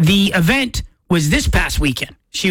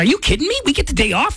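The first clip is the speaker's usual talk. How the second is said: excited disbelief; 6 semitones higher, faster than usual. Retold or imitated. Retelling his own excited reaction.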